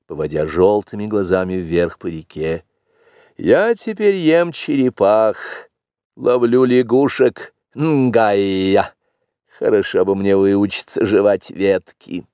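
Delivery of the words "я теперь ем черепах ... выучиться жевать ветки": mock-complaining panther.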